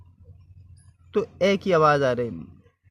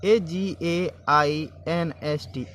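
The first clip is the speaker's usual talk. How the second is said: slow spelling out; much slower than usual. Shown as a demonstration.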